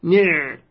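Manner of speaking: نع as one syllable ni', closed on the ayn; ni' cut out alone to show the silent-vowel ayn; ayn with sukun. Shown as a demonstration. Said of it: "هكذا".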